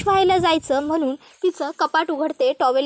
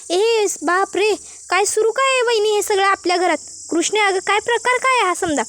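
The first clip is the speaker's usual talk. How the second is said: shocked exclamation; 4 semitones higher than usual. Acted. Samar shocked at the quarrel.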